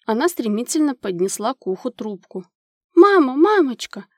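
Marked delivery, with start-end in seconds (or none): 2.9-4.1 a loud, high cry for her mother; desperate shout. A narrator's reading. Girl crying out to her mother on the phone, loud and desperate. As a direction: call out with all your longing. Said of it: "отчаянно закричала она".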